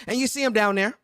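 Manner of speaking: bigging up your bro like a ring announcer; hyped arena-style introduction of his co-host; hype-man introduction. Acted.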